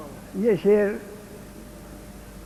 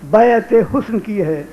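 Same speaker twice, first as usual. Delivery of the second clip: loud, deliberate phrases with pauses; ghazal recitation; 2 semitones higher, 6 dB louder than usual. Acted. Poet setting up his next couplet for the audience, projected recitation. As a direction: set up the couplet in projected pieces.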